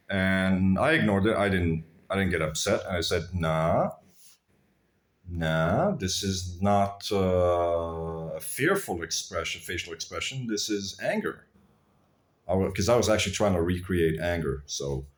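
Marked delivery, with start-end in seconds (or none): 3.3-11.5 calm retort. Retold or imitated. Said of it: "I said it very calmly".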